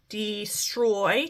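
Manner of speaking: DESTROY in two slow, separate beats; syllables drawn apart. Shown as a demonstration. Teacher showing two syllables in destroy, syllables drawn apart. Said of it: "two syllables again".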